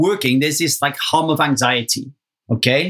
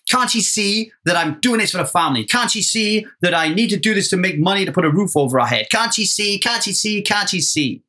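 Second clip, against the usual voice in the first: mild mock-exasperated pleading, rising on the repeats; retold annoyance; 3 semitones higher than usual. Husband privately complaining about his wife, mildly exasperated. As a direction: replay your own aggrieved inner rant, lightly. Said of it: "I get really annoyed and pissed off".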